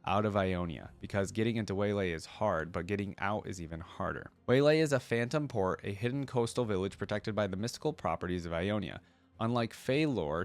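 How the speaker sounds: steady storybook reading voice; story narration. Acted. Reading Akali's lore to viewers in a story narration voice. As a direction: read the lore like an audiobook narrator.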